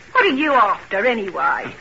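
suspicious, irritated challenge; a touch of defensive temper; getting angry. Acted. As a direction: challenge them with mild anger. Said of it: "Why are you getting angry?".

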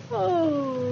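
yawning oh. Acted. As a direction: let a yawn escape. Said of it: "You're yawning already".

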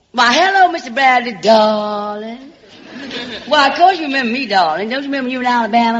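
Southern belle voice. Acted. Alabama girl sweet-talks the producer's secretary, in a Southern belle voice. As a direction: play the small-town Alabama charmer calling everyone sugar and darling.

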